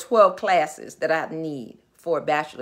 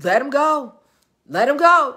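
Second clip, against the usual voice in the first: insistent; 4 semitones higher, 4 dB louder than usual. Retold or imitated. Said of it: "I'm like".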